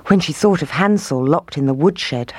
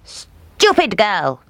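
slow, drawn-out grumble; grumbling; 6 semitones higher, much slower than usual. Acted. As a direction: grumble it with scorn. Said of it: "she grumbled".

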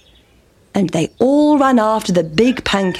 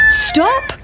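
cockerel's call. Acted. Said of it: "said the cock".

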